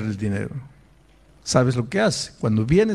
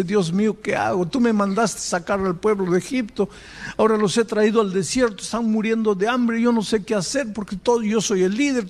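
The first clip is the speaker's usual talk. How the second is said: higher, lightly voiced desperate prayer; a hint of Moses begging God for help; pleading Moses; 6 semitones higher than usual. Moses pleads with God in the desert, higher and desperate.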